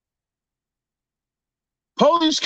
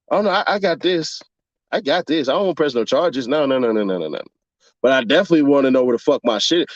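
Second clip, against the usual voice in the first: low, quick, menacing mutter; 9 semitones lower, faster than usual. Retold or imitated. Voiced menacing victim.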